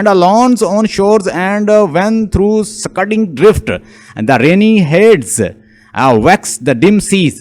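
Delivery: slow, halting verse reading; poem reading. Acted. Lecturer reading Ulysses' sea lines to students, slow poem reading. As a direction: pick through the verse slowly, phrase by phrase.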